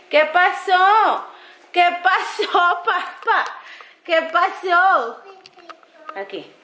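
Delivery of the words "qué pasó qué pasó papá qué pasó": high, slow cooing questions; baby talk to puppy. Acted. (arrullando al perrito, lento y agudo)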